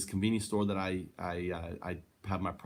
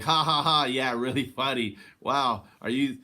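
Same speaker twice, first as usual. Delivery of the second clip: facetious laugh; 4 dB louder than usual. Shown as a demonstration. Showing how he laughs off a Trump supporter, facetious laugh. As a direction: fake polite laughter, a touch louder. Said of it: "do a facetious laugh".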